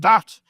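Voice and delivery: mock Australian "stat", thrown back loudly; mocking pronunciation. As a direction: punch out "stat" in imitation of his accent. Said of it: "You're like".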